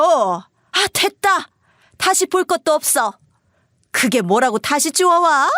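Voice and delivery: high, irritated brush-off; dismissive mother. Acted. Mother refusing to look at the box, dismissive. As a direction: wave it away in acted annoyance.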